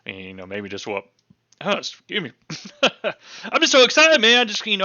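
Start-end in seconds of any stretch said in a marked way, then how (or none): 1.6-4.8 hiccuping while laughing; talking through hiccups. Real, not acted. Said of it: "I keep hiccuping over here".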